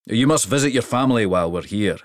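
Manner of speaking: a big king pleased with the trip; hearty king. Acted. King's voice.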